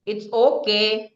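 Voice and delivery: slow, firm okay; firm authoritative okay. Shown as a demonstration. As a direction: state it with authority. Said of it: "like authoritative tone".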